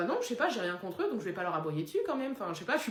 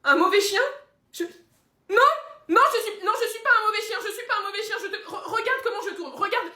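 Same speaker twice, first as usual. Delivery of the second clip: high-pitched, indignant outburst; frantic protest; 10 semitones higher, 4 dB louder than usual. Acted. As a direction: protest wildly at being called a bad dog. Le chien proteste, vexé. (protestation aiguë et affolée)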